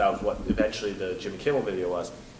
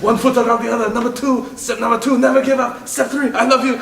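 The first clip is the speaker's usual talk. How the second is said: much higher, louder hammed-up pep talk; mock motivational book voice; 12 semitones higher, 8 dB louder than usual. Van Damme's book coaching the turtle, high hammed-up recitation. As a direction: recite the steps like a cheesy mentor, laughing at the end. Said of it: "it was stuff like".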